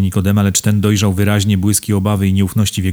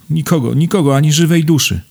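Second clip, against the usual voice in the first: high, fretful character voice; hopeless insistence, pitched high; distressed denial; 7 semitones higher than usual. A narrator's reading. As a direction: lament it with the pitch lifted. Kunicki despairs of finding help.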